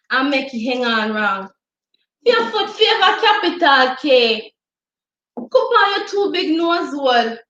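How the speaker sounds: Jamaican patois poem performance, feisty; dramatic poem recitation. Acted. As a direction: recite with sass and bite. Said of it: "It's called Cass Cass".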